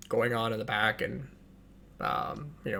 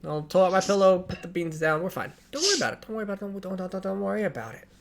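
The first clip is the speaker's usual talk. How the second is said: airy NPC waving off the worry, louder at first; breezy NPC; 5 semitones higher, 5 dB louder than usual. Acted. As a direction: laugh off the ration warning. NPC brushing off the rationing.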